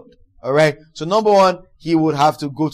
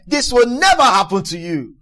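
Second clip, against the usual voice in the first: acted firm reprimand, voice a little raised; Peter; 3 semitones higher, 5 dB louder than usual. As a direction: insist in protest, scolding. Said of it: "began to reprimand him for saying such things".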